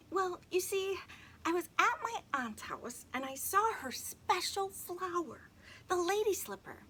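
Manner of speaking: put-on high little girl confessing; girl's voice. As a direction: tell it high and sheepish. Emily explains the flower.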